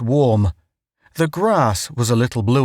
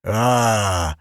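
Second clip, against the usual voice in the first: happy native sound; 3 semitones lower than usual. A narrator's reading. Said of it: "said the native happily".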